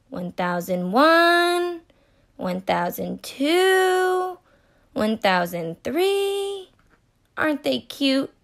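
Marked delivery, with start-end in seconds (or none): 0.1-6.7 slow, drawn-out counting of seconds. Shown as a demonstration. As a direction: count each second out slowly. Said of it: "give them a couple of seconds".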